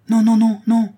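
cri aigu et très fort; crie. A narrator's reading. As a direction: refus hurlé, répété avec force. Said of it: "se mit à crier le duc". (le duc désespéré crie son refus)

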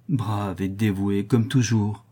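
slow, grieving tone; desolate. Acted. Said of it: "avec un accent désolé".

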